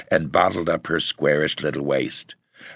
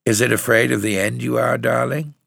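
tender, higher-pitched questioning; gentle solicitude; 6 semitones higher than usual. A narrator's reading. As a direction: ask a dying loved one with care. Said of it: "with gentle solicitude".

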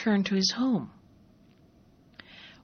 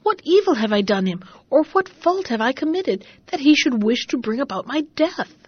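higher, louder anguished questions; distressed pleading; 3 semitones higher, 4 dB louder than usual. Acted. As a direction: plead in disbelief with the servant. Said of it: "exclaimed Bobino".

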